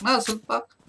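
sudden loud call-out; loud taunt. Real, not acted. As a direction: shout it at the enemy. Taunting enemy over voice chat.

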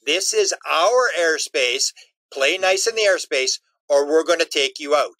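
slow, deliberate warning; slow alien warning. Retold or imitated. Aliens warning the US military, slow and deliberate. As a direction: lay down the law slowly.

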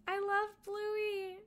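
high, drawn-out gush; fond gushing. Real, not acted. Streamer gushing to chat about Bluey, adoring. Gushing over a kids' show.

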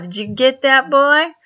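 high, loud hick hunter jab; hammed-up country hunter calling out; mock redneck taunt. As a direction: jeer like a trigger-happy good old boy.

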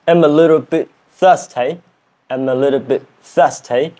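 learner's tentative British accent; British accent attempt. Shown as a demonstration. Learner trying the challenge sentence, British accent attempt. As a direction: have a go at sounding British. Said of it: "British accent challenge".

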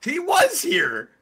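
high, drawn-out exclamation; indignant protest. Real, not acted. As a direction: pitch leaps up in slow disbelief. Objecting that someone was present.

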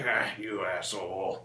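slow, low, drawn-out mock reproach; amused retort. Comedian replying to friend's joke about his mom, amused. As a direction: stretch it out, letting the friend off.

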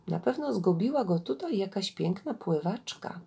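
measured storyteller reading with swelling intonation; story narration. Acted. Gawędziarka reads an Indian fable to listeners, expressive story narration. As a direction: read a fable aloud, deliberately phrased.

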